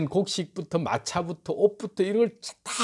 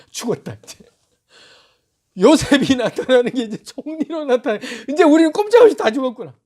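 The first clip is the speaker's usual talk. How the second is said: a touch of doomed panic, rising higher toward the end; mild terror; 6 semitones higher, 4 dB louder than usual. Acted. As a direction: brothers realizing they are doomed, building panic. Brothers terrified at the reveal.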